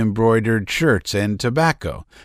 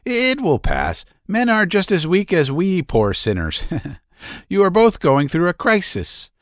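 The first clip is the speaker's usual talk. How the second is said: much higher, gushing comforting lady's voice; fussy older lady; 8 semitones higher than usual. A narrator's reading. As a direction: cluck over her like a doting matron. Maria Konstantinovna comforting Nadezhda.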